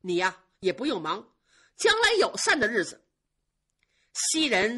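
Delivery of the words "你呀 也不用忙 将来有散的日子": put-on young master boiling over at the maid; trembling with anger. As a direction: threaten her through shaking rage. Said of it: "气得浑身乱颤".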